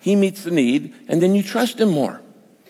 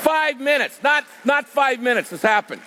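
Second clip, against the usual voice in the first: high, ringing, amazed emphasis; excited emphasis; 8 semitones higher than usual. Real, not acted. Preacher to congregation, amazed at the timing, excited high emphasis. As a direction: pitch it up in wonder at the timing. Marvelling at answered prayer.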